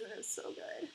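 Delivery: breathy hushed whisper; whispered aside. Acted. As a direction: whisper it like a secret.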